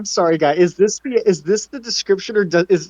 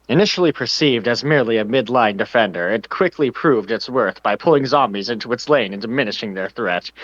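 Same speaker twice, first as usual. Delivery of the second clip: low, slow bubbly hippo voice; Mister Hippo impression; 6 semitones lower than usual. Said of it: "I need to try to do a Mister Hippo impression".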